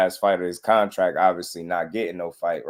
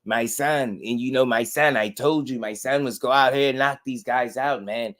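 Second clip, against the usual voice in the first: higher, proud boasting dad, lightly voiced; imitating bragging father; 4 semitones higher, 4 dB louder than usual. Mocking the fighter's father bragging about his son. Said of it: "his father was bragging about how great he is".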